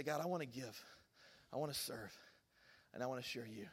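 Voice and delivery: soft, low sincere prayer; quiet prayer. Shown as a demonstration. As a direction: offer it gently to God, hushed and low. Models a short prayer to God.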